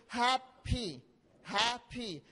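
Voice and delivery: "happy" split slowly into two syllables, hap-py. Shown as a demonstration. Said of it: "How many syllables are there".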